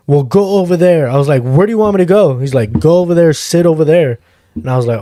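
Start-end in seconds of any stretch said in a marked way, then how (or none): 0.1-1.1 higher-pitched imitation of an impatient cop; lightly mocked cop giving orders; retold cop's order. Acts out cop ordering him away. 1.4-2.4 higher-pitched, exasperated question; mildly indignant retold comeback; retold exasperation. Acts out exasperated reply to cop. 2.8-4.2 raised-pitch, insistent imitation of a cop; lightly mocked officer ordering someone aside; retold cop's order. Acts out cop repeating his order.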